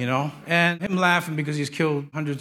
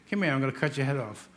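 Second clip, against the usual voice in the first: understated giant's threat, softer and quick; 3 semitones lower, 5 dB quieter, faster than usual. Acted. Goliath taunts the boy David, lightly voiced threat. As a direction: toss off the threat as a scornful giant. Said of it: "he has a voice like John's".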